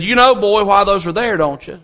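a hint of a folksy elder's challenge; lightly voiced grandfather. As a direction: lightly imitate a grandfather quizzing the boy. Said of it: "Papa said".

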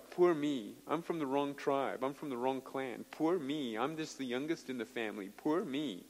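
subdued poor-me moaning; mock self-pity. Preacher mimicking people from the wrong tribe, mock self-pity. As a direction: imitate someone feeling sorry for themselves. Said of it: "the poor me's".

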